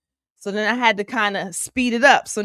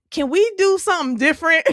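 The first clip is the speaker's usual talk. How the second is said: pleading; 7 semitones higher, 5 dB louder, faster than usual. Pretend. Pleading with chaser, self-amused.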